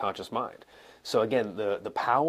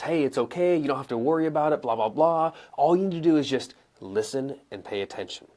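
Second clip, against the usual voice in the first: raised, pressing delivery, then "listen and pay attention" set apart; extra intense; 4 semitones higher, 3 dB louder than usual. Shown as a demonstration. Coach replaying the hidden command, extra intensely. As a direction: push it, pausing before "listen and pay attention". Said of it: "extra intensely".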